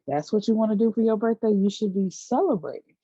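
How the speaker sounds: lightly voiced friend gushing about a birthday; mock enthusiasm. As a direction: hype her up in a rush. Voicing the friend's reply.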